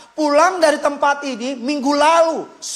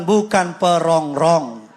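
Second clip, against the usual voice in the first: laughing prompt; 7 semitones lower, slower than usual. Shown as a demonstration. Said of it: "Sekali lagi bilang".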